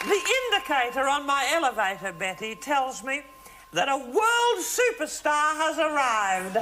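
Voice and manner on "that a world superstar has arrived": grand announcement. Acted. Host announcing the star guest.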